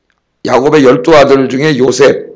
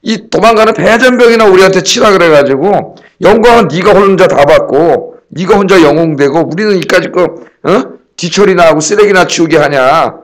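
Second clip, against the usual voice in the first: higher, indignant retold outburst; mock angry protest; 4 semitones higher than usual. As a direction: throw the accusation back, higher and aggrieved. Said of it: "이렇게 막 화를 내면서".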